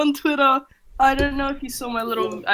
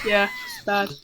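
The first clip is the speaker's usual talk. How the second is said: rough breathy rasp on the out-breath; raspy exhale; 2 semitones lower, 7 dB quieter than usual. Real, not acted. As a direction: push air out through a sore throat. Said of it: "This is how I sound when I breathe out".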